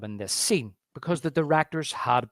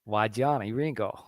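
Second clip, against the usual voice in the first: lightly voiced film gunslinger. Co-host quotes the film to his friend, lightly voiced gunslinger. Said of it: "he says".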